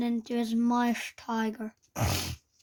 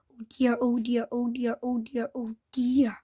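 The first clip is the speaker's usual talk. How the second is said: anxious muttering under the breath; muttered worry. Acted. Hiccup muttering to himself over the burnt hillside. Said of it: "he muttered to himself".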